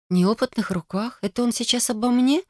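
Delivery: incredulous rising repeat of неопытных; indignant echo. Acted. Indignant echo of his words.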